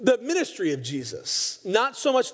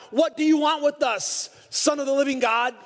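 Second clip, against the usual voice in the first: high, straining demon cry; a possessed man calls out from the crowd, a pitched-up cry; 5 semitones higher than usual. Retold or imitated. The possessed man in the synagogue cries out at Jesus, mock anguished cry. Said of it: "begins to cry out".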